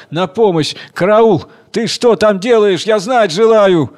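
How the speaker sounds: a blind husband yelling up the tree in despair; desperate shout. Acted. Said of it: "Он издал крик отчаяния".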